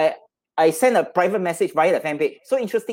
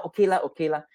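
put-on Singaporean accent; faster than usual. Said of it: "You know".

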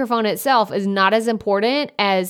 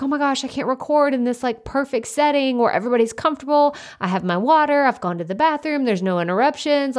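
higher, hurried mock fretting; mock stressed out; 5 semitones higher, faster than usual. Imagined podcaster fretting over the perfect setting, mock stressed out. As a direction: imitate a stressed perfectionist, pitched up and quick. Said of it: "you're all stressed out 'cause you're like".

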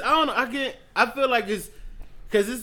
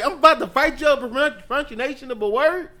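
mock anger; 6 semitones higher, 4 dB louder than usual.

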